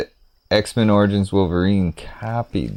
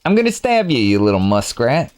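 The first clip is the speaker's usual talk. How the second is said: excited squeal; 2 semitones higher than usual. Pretend. Repeats threat higher.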